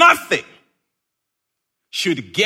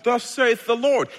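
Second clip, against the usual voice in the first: mock solemn; 5 semitones higher than usual. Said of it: "be like".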